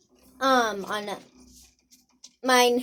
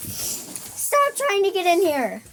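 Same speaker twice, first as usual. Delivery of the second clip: losing her voice; slightly hoarse, tired voice. Real, not acted. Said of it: "losing my voice today".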